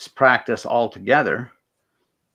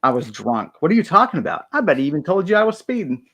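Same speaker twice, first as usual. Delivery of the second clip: raised, indignant confusion; baffled driver; 3 semitones higher, faster than usual. Retold or imitated. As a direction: protest in disbelief. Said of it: "driver's just totally baffled".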